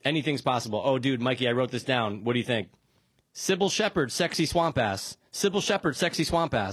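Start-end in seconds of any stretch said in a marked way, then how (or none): 3.3-6.7 tongue twister. Shown as a demonstration. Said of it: "Five times fast".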